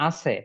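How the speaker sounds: ache misread as "আছে", two syllables; spelling-based wrong "আছে"; naive mispronunciation. Shown as a demonstration. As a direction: say "আছে" with a ch sound, ah-chhe. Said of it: "আমরা উচ্চারণ করবো".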